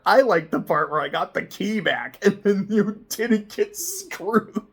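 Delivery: a hint of a cartoon child; mock kid answer. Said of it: "like an episode of Dora".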